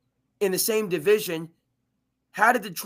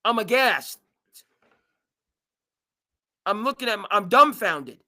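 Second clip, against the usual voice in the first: mock outrage; 3 semitones higher, 5 dB louder than usual. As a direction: play up the disbelief for laughs.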